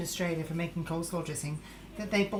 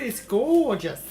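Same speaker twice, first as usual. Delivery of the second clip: gushing; 2 semitones higher, 7 dB louder, slower than usual. Acted. Gushing over the painting.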